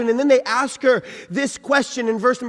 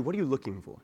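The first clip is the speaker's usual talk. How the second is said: soft and tender, much quieter; gentle question; 10 semitones lower, 13 dB quieter, much faster than usual. Acted. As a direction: ask it gently, like comforting someone in tears. Voicing Jesus' gentle question.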